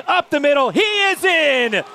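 shouted, stretched score call; touchdown call. Real, not acted. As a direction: bellow he is in. Goal-line touchdown, radio call.

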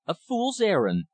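high-pitched, indignant echo; exclaimed echo. A narrator's reading. Visitor echoing the rich man's dismissal, exclaiming. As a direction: throw the words back in a high exclamation. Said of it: "I echoed".

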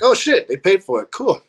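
high-pitched mock amazement; pleasant surprise. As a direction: imitate someone pleasantly surprised, pitch jumping up. Crew's surprised relief, retold.

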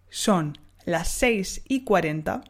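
slow, clear modelling; slow model phrase. Shown as a demonstration. Teacher modelling the Spanish time, slow. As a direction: say it slowly for the learner. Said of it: "on dira".

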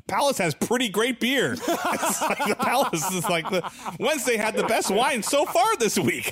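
laughing through mock headlines. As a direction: giggle while reading the headlines.

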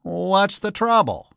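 high, slow puzzled question; baffled enquiry; mystified. A narrator's reading. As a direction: ask in open bewilderment.

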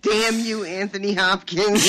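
loud, hammed-up cursing; mock angry curse. Fan cursing the actor at the sky, mock anger. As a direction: curse him to the heavens, in jest. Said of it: "Shakes fist angrily at the sky".

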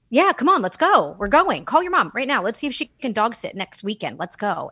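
loud, hurried, bossy push to leave now; pushy boyfriend. Retold or imitated. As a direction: rush her along like it's already decided. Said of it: "Not just".

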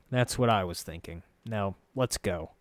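grudgingly agree, slowing at the end; grumbling. Acted. Narrator accepting his unwilling guide, mildly grumbling. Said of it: "I said with a grumble".

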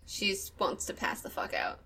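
breathy, near-silent whisper. Real, not acted. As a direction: whisper it, worn out. Exhausted player after long session.

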